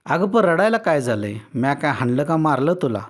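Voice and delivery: a hint of pleading husband. Husband pleading with his crying wife, lightly pleading. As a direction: coax her, half-begging. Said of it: "गयावया करत म्हणाला".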